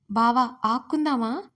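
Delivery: put-on slow, childlike lisping plea to play; little girl's voice. A narrator's reading. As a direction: ask sweetly like a five-year-old tugging his hand. Five-year-old girl asking to play.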